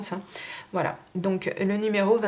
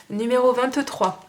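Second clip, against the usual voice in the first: annonce forte et lente; 5 semitones higher, 5 dB louder than usual. Real, not acted. Annonce du lot suivant.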